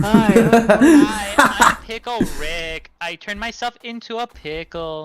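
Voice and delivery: high, loud squeaky cartoon voice; squeaky Pickle Rick.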